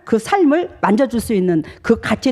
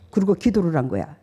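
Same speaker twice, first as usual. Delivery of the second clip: ordinary talk, nothing marked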